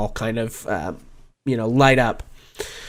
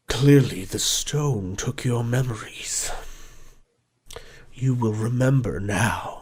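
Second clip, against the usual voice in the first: hushed dragon voice; 6 dB quieter than usual. Acted. The gold dragon reassures Rainier in a hushed whisper. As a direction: murmur it with gentle certainty.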